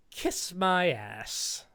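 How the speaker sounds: slow, drawn-out sassy delivery; drawn-out sass from a fed-up woman; sassy attitude. Pretend. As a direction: say it with a cheeky sneer, slowly. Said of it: "I like the attitude".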